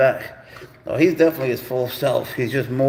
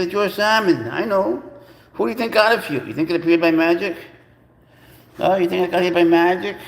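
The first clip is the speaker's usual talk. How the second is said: higher, louder mock-indignant scolding; teasing the cat; 5 semitones higher, 3 dB louder than usual. Owner teasing his cat about the salmon, high mock outrage. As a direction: playfully scold the pet.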